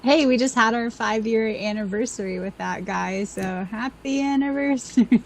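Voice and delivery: put-on English with a French accent; Fleur French accent. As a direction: talk like a French witch from Harry Potter. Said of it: "Your English in a French accent was super good".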